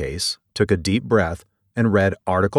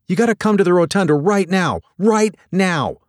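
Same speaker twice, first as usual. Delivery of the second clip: high, loud, rushed demand; urgent, unfamiliar voice; 11 semitones higher, 4 dB louder than usual. A narrator's reading. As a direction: order a superior to come at once, frantic. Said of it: "an unfamiliar voice coming out of her".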